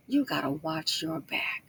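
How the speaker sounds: slow, low-key, half-whispered warning; measured, hushed caution. Real, not acted. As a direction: spell the warning out slowly and softly. Repeats warning slowly, low.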